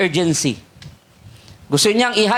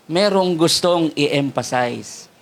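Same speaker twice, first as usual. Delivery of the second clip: slow emphasis; 4 semitones lower, slower than usual. Acted. Key point slowed.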